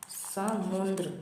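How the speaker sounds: समुद्र said very slowly, no n sound; slow careful pronunciation. Shown as a demonstration. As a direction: draw out समुद्र clearly without a nasal n. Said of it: "ना की sound नहीं आती".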